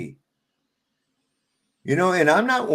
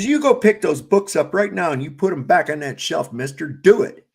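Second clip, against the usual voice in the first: stern scolding; 5 dB louder than usual. Retold or imitated. Scolding a stranger's misbehaving kid.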